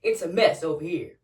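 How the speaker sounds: lightly voiced bossy manager; a hint of fake politeness from the boss; mock manager voice. Manager voice in skit.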